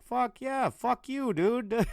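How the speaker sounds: furious yell. Retold or imitated. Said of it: "And he's like".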